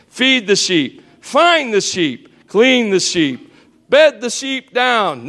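slow, plodding chore list; monotonous chores. Shown as a demonstration. Preacher acts out a shepherd's dull routine, slow plod. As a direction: trudge through each chore. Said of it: "here's what I think it would be like".

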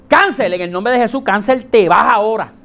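loud, firm rebuke of the illness; commanding prayer. Shown as a demonstration. Pastor showing the church how to pray with authority, loud command. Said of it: "Pero es con autoridad".

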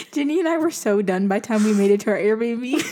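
giggling through the line; finally letting the laugh through. Real, not acted. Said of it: "I cannot keep a straight face".

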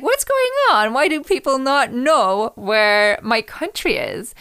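mock-shocked friend asking why nobody knows his country; shocked disbelief. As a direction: pitch jumps high on the first question, then slows down. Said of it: "And he was shocked".

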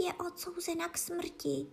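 soft, high hushed secret; šepot. A narrator's reading. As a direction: confide it softly into an ear. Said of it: "uší zašeptal". (tiše, důvěrně, vyšším hláskem)

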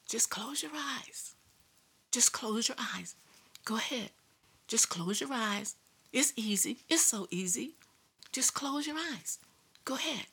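devil's whisper. Retold or imitated. The devil whispering in his ear while he drives, hypnotic whisper. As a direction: breathe it into his ear like a tempter. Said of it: "he was whispering".

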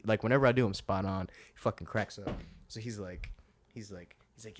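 usual speaking voice

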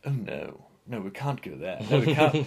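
a lightly put-on nagging inner voice; second Steve voice. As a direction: play the fussy killjoy conscience. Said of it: "this is how second Steve talks".

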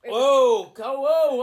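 loud, high growling shark noises; hammed-up shark, big and loud; menacing shark. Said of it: "Do a shark impression".

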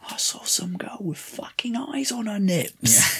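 hushed gossiping whisper, a bit slow; villager whisper. Retold or imitated. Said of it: "if you heard a whisper like".

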